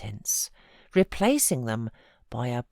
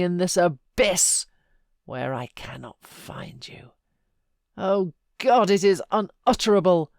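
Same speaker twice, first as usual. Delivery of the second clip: anguished pleading; 3 semitones higher, 6 dB louder than usual. A narrator's reading. Heathcliff begs dead Catherine to haunt him, crying out loud. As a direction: beg the ghost with all your despair.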